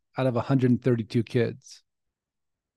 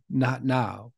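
the inner voice again, a touch firmer and louder; a little louder; 2 semitones lower, 4 dB quieter than usual. Retold or imitated. Inner voice pressing him again, a touch louder. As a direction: insist a bit more this time. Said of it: "a little bit louder".

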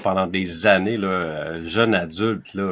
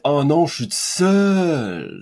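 lonely lament; 5 semitones higher, 3 dB louder, much slower than usual. Retold or imitated. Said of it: "loneliness, là, c'est genre".

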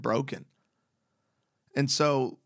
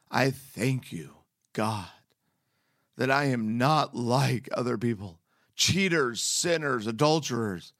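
measured, earnest Bible reading; scripture reading. Acted. Preacher reading Luke's parable to his listeners, measured and earnest. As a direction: read the parable with weight.

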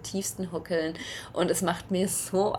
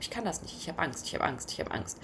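quiet, mildly scared retelling; softly imitating her own panic; retold fear; 6 dB quieter, faster than usual. Recalling her fear of riding the quad, quiet and mildly anxious.

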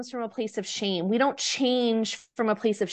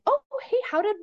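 sweet greeting; 4 semitones higher than usual. Retold or imitated. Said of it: "gives him a hug".

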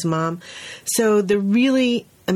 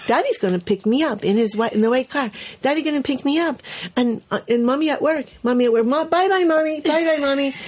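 put-on higher, bright toddler voice, all better; cheerful little boy; 7 semitones higher, faster than usual. Teacher voicing the boy recovered after his cry. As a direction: chirp it like a kid who's fine now. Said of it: "he said".

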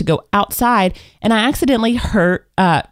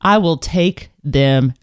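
mock fierce; 5 semitones lower, much slower than usual. Real, not acted. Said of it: "I'm Mom Bear".

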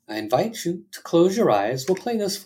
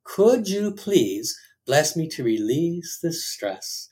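prayer; slower than usual. Acted. Leads a healing prayer.

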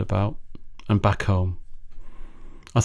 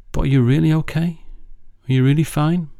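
"really" lifted high and leaned on; emphasis on really; 5 semitones higher than usual. Retold or imitated. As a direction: hit "really" in both questions. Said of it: "A little bit more emphasis on the word really".

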